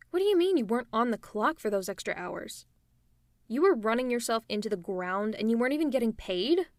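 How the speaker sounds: outraged disbelief. Acted. Shocked at unpaid overtime.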